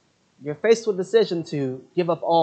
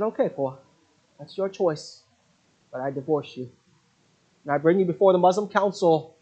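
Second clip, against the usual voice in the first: building angry ultimatum; 3 semitones higher than usual. Retold or imitated. Husband's ultimatum to his Christian wife.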